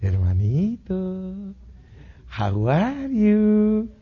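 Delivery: very slow, high syrupy greeting; sugary greeting. Acted. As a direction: drag it out sweetly, overly friendly. Hermanito saluda con dulzura. (saludo empalagoso, lento y agudo)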